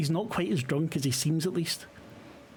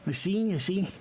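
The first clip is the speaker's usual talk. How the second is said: a brisk, higher, eager host's welcome; friendly bar owner; 5 semitones higher, 3 dB quieter than usual. Acted. Bar owner greeting the investigators, quick and eager. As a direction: rattle off a warm welcome to new guests.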